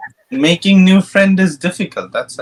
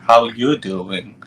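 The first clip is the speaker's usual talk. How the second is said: Joey's pickup line; 5 semitones lower, slower than usual. Retold or imitated. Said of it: "Joey's forbidden fruit".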